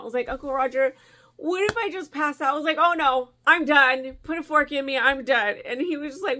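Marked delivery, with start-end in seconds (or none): 0.3-2.5 higher-pitched mock panic; retold freaking out. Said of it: "I'm freaking out". 2.8-5.6 loud, high mock-dramatic despair; retold freaking out. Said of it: "I'm freaking out".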